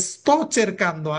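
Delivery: sto cercando said slowly, each syllable separate; slow model phrase. Shown as a demonstration. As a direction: repeat it slowly for the class. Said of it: "মা মানে কি?".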